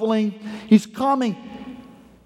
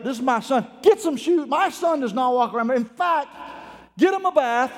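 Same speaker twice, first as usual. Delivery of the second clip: excited father; 3 semitones higher than usual. Acted. Overjoyed father orders celebration.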